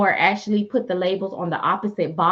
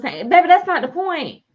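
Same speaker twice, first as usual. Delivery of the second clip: higher and louder, leaning on that's; indignant retort; 11 semitones higher, 6 dB louder than usual. Real, not acted. Snapping back at the store staff, loud and indignant.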